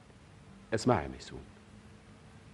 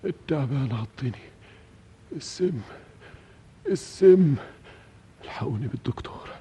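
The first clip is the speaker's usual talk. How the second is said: delirious fear; 6 semitones higher than usual. Acted. Bitten man wakes in delirium.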